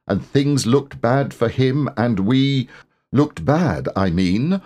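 sing-song recital of a hum; recited poem. A narrator's reading. Pooh reciting his new hum to himself, sing-song. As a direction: lilt it like a bear's little poem.

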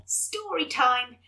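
slow, savoured story time; drawn out. Acted. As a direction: stretch it out lovingly. Drawn out favourite phrase.

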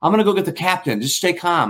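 high, quick flustered stewardess; nervous stewardess. Retold or imitated. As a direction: fake calm over rising panic. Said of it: "she kinda goes".

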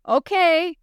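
high call back to mom; yelling back. Acted. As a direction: call it out loud to the car. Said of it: "Chris yelled back".

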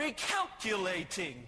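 firmer mock GPS voice; GPS losing patience. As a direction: start to lose the machine's patience. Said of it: "It was screaming at us".

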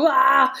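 mock exasperated "wah"; frustrated wail. Mom venting about her son's college refusal, frustrated wail.

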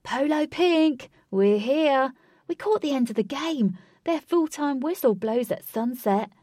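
loud, high call across a field; crying out. A narrator's reading. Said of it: "Lynx from Bluesback cried".

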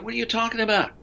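high, offended disbelief; indignant protest. Retold or imitated. Telling a colleague he's been recording since fifteen, high and indignant. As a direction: protest like a wounded radio pro.

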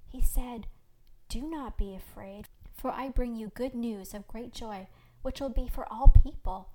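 measured, solemn recital; understated reverence, building at the end; reverent. A narrator's reading. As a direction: recount sacred words with awe. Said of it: "his voice suddenly reverent".

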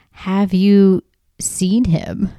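slow, drawn-out billboard question; billboard read-out. Retold or imitated. Telling listeners what the billboard says, slow eerie read-out. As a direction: read it out slowly, half whispered.

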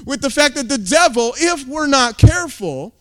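rising shout against the devil; fiery escalating sermon cry; angry preaching. Real, not acted. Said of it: "I'm angry".

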